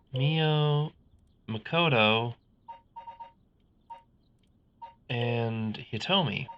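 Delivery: low, brooding detective inner monologue; noir detective. Acted. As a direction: mull it over like a hardboiled sleuth. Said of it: "I'm still in the detective voice".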